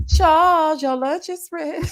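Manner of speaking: loud high call to the next room; yelling across the room. Retold or imitated. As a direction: sing out his name across the house. Imitating Netta calling Charles.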